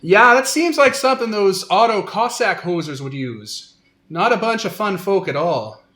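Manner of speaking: Canadian trader scoffing at rivals; Canadian accent. Acted. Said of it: "I didn't even know you could do this accent".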